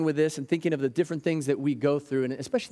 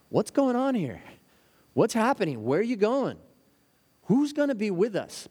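much higher, urgent questions; anxious disciples; 6 semitones higher than usual. Pretend. Disciples asking the departing Jesus who will stay, anxious and high. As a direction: ask like frightened followers being left.

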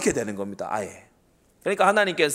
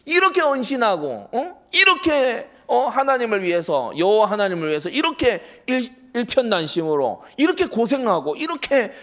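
higher mock-indignant whine, dragged out at times; a preacher hamming up the devil's sarcastic protest; sneering devil; 3 semitones higher than usual. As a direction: play the devil sneering over Moses' body, voice pitched up. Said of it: "이 마귀가 빈정거리는 거예요".

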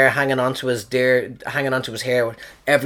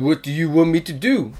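lightly put-on French accent; 2 semitones higher than usual. Actor on a flight answering the crew, mock French accent. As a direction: play a Frenchman with a comic accent. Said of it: "That's my French accent".

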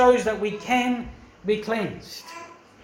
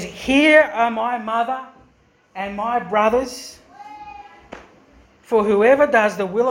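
Jesus declaring. Acted. Jesus quoted dramatically in sermon.

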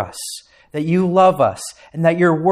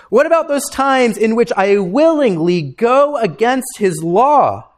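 higher, pleading questioner voice; doubting believer asking; 6 semitones higher, 3 dB louder than usual. Retold or imitated. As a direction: voice a worried churchgoer pressing the pastor. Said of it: "You might ask".

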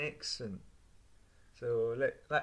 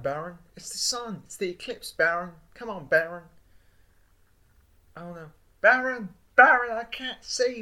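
Trump impression; 8 semitones higher, 6 dB louder than usual. Trump voice staring at eclipse.

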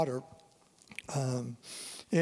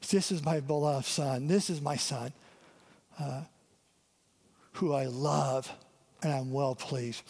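God the Father; 3 semitones lower than usual. Acted. God the Father speaking over his Son, lower and gentle. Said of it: "You see the Father speak".

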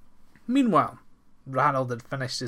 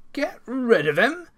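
higher, louder eager cry; eager outburst; 10 semitones higher, 6 dB louder than usual. Acted. Farmer to his servants, eagerly crying out higher and louder. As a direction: jump at the idea.

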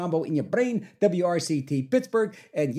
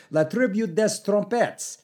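confident French title; 4 semitones higher than usual. Real, not acted. DJ bluffing through a French band's song title, confidently. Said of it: "you say it with confidence".

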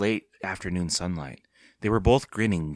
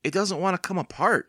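in surprise; 9 semitones higher than usual. A narrator's reading. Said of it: "Evan said in surprise".

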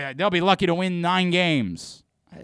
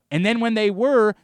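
1 raised voice; 8 semitones higher, 7 dB louder than usual. Real, not acted. Angry rant at team.

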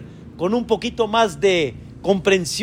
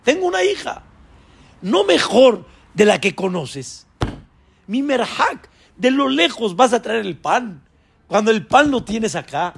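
a lightly higher pleading servant; Eliezer pleading; 4 semitones higher than usual. Acted. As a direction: gently press the master. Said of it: "dice Eliezer".

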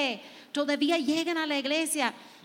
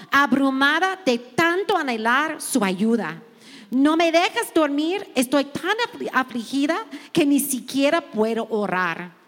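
scripture reading; 3 dB louder than usual. Acted. Preacher reading a psalm to the women, fervent and loud. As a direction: proclaim each line of the psalm to the room.

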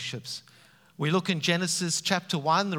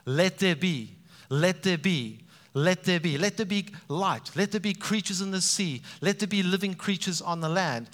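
God commanding; 3 semitones higher than usual. Retold or imitated. Preacher voicing God's creative commands, lightly commanding. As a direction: proclaim each let there be like a gentle decree. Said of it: "the Father speaking out".

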